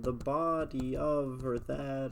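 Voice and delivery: "body of" forced onto an even beat; scanning meter. Shown as a demonstration. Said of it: "that's too long".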